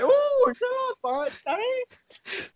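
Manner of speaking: Boris Johnson impression. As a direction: wave him off like a petulant toff. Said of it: "And it's like".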